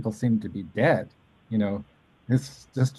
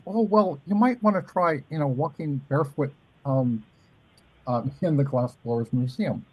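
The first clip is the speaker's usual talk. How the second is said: imitating Ellen; 3 semitones higher than usual. Imitating Ellen's shy answer.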